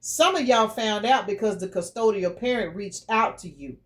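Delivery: ordinary talk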